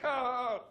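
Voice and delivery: loud, high, stalling "ahh"; drawn-out cry while groping for an excuse; panicked "ah". Retold or imitated. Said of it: "I panicked".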